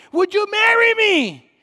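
high, loud holler; yelling, screaming. Retold or imitated. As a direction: imitate a man yelling his request. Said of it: "he's over here yelling".

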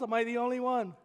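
normal talking voice

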